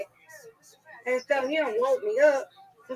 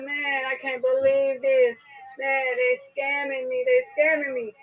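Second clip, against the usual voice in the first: upset dude; slower than usual. Retold or imitated. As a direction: drag it out like he's been robbed. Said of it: "And he said".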